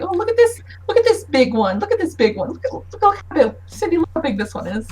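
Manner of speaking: high, fast, gushing delight over a big guest; gushing excitement. Acted. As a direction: rave like a showman admiring a prize. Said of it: "he turns to Zug and he's like".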